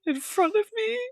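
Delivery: high, squeaky echo of the complaint; echoing the quote. Retold or imitated. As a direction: parrot her in a shocked squeak. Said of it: "Do you have to do that".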